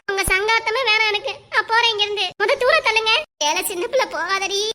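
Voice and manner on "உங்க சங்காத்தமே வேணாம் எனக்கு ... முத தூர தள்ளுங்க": angry walk-out. Acted. Storming off in the quarrel.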